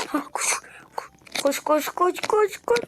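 whispered run run run; tense whispered urging; urgent whisper. Real, not acted. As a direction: hiss it urgently under breath.

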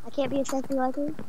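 voice changer. Real, not acted. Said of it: "Turn off the voice changer now".

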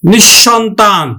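নিঃসন্তান as nish-shontan; doubled palatal sh. Shown as a demonstration. Teacher giving an example, doubled sh in নিঃসন্তান. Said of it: "তালব্য স উচ্চারণ করি".

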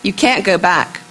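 measured recital with a steady refrain; poem reading. Acted. Poet reading on what is burned, measured recital. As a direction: read rhymed verse, weighting the repeated lines. Reads her poem aloud.

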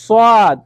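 সাদ said with a thick, heavy s; teacher demonstrates সাদ as a full, heavy s sound; thick saad. Shown as a demonstration. Teacher demos thick সাদ to students. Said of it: "সাদটি হলো মোটা".

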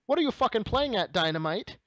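put-on shouted high French Canadian accent. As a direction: yell it like an angry Montreal wrestler. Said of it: "really good French Canadian accent".

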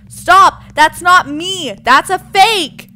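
high, loud, drawn-out protest; frantic shout. Pretend. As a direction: yell a desperate warning. Warning that the lookalike is fake.

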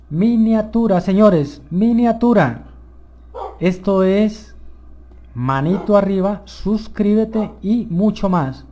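loud, high excited proclamation. Real, not acted. Player calling out a thumbnail moment to viewers, excited. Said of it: "me emociono mucho".

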